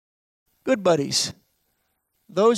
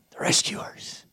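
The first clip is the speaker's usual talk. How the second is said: "The rescuers" whispered, no voice; whispering; 8 dB quieter, slower than usual. Shown as a demonstration. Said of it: "repeated as a whisper".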